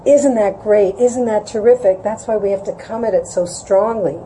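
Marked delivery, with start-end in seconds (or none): 0.1-2.0 outward enthusiasm. Retold or imitated. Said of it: "this intense emotion outward".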